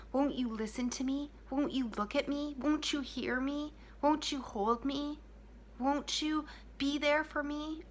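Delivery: put-on rising, slowing child's plea; pleading child. Ignored inner child begging its parent, pleading. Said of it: "It is saying".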